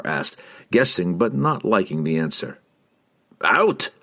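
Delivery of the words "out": short barked high shout; roar. A narrator's reading. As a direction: roar the single word. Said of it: "Bruner roared".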